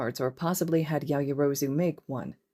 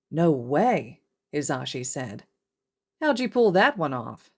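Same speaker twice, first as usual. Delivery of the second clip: surprised. Acted. Hizashi surprised at news.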